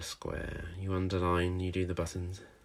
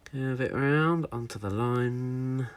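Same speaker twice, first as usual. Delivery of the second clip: slow demo; 5 semitones higher, slower than usual. Shown as a demonstration. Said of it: "Let's try again".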